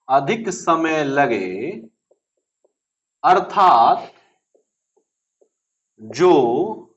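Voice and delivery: very slow, phrase by phrase with long pauses; slow dictation. Shown as a demonstration. Teacher dictates a definition for pupils to write, slow dictation. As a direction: dictate it slowly for note-takers.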